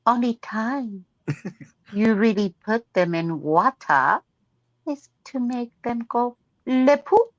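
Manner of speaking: put-on half-hearted French accent with pauses. Becky stumbles through turtle lines, half-hearted French accent. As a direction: slip French words in, lightly accented. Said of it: "with the French accent".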